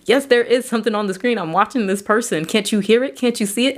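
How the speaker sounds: a hint of desperate insistence; insistent pleading. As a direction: make them believe you, a bit frantic. Insisting something is on screen.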